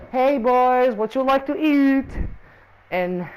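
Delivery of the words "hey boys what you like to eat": lightly voiced mother, drawn-out ending; friend's mother. Mother asks the boys about breakfast, lightly imitated. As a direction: imitate a mum calling the boys a little higher. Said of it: "She's like".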